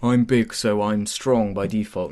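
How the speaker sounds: lightly voiced big strongman, drawn out; a hint of a simple-minded heavy; dumb strongman Bane. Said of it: "they just made him sort of".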